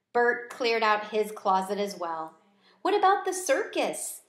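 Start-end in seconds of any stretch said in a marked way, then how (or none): 2.8-4.2 high squeaky hamster voice; a curious little squeak. A narrator's reading. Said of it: "I squeaked".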